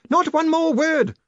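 very high, slow, loud outburst; screamed order. A narrator's reading. Furious man silencing the young wizard, screaming. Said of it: "screamed Grinium".

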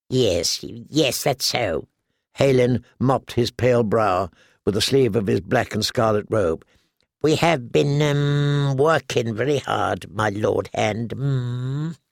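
a jittery little man caught out; nervous alchemist. Acted. Halin the nervous pyromancer.

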